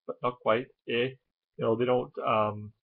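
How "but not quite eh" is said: almost-Canadian Minnesota speech, rounded O's; Minnesota accent. Shown as a demonstration. Vlogger showing how Minnesotans talk, in a Minnesota accent. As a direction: put on a light Minnesota accent. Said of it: "they kind of talk like this".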